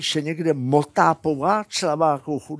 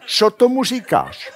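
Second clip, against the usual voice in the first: high laughing "Co tomu říkáš?", stress on "tomu"; quoting wife with a laugh; repeated wife's question; 8 semitones higher, 4 dB louder than usual. Retold or imitated. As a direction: echo the wife's line high and amused. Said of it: "řekne".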